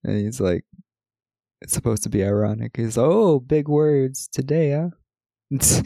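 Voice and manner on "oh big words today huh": slow, drawn-out mock amazement; louder, higher sarcastic needling; mocking sarcasm. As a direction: retell a radio host's condescending jab. Radio host mocking the band.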